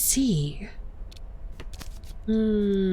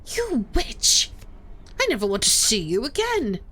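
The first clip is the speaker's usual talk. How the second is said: tearful accusation. Acted. Clarissa accuses Veronica of killing him, lightly tearful. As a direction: accuse her through mild tears. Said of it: "She collapses into floods of tears again".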